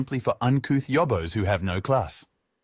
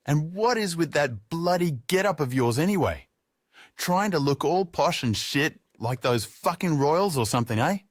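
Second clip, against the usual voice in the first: put-on higher, rowdy Aussie drunk jeering; drunk tradie taunting; 6 semitones higher than usual. Drunk tradie mocks Julius's outfit, rowdy high jeer. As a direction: sneer at his posh get-up like a pub drunk.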